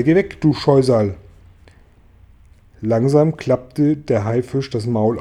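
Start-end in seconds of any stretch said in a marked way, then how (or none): 0.0-1.1 louder angry shout. A narrator's reading. The friends shout at the shark, loud angry shout. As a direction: drive the beast off. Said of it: "riefen alle".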